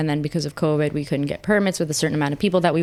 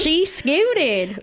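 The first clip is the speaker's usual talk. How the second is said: high mock-teasing remark; 10 semitones higher than usual. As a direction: poke fun at her word.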